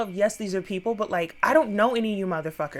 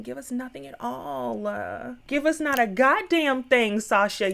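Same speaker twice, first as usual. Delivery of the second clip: sassy hype; 4 semitones higher than usual. Retold or imitated. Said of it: "I was like".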